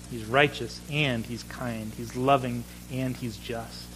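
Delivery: slow, hushed reverence; meditative preaching voice; slow, reverent. Acted. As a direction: let each phrase land softly.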